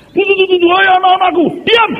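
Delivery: hammed-up oracle silencing the room; mock prophet voice. Imitating prophet again.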